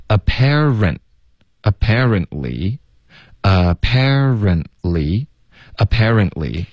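"apparently" slowly, the t left out; dropped T. Shown as a demonstration. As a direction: glide from "parent" into "ly" without a t. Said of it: "rent的特会省略".

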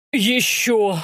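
rough, drawn-out roar; moderately loud roar; roaring demand. A narrator's reading. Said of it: "взревел Антип".

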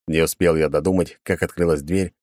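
plain reading voice

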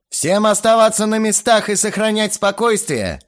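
loud, high barked order; growled command. A narrator's reading. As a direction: bark it like a hijacker. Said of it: "прорычал я".

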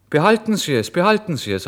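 loud, high call after someone walking away; calling after him. Acted. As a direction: shout it after him down the street. Calls after the departing man.

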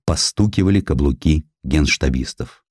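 usual speaking voice

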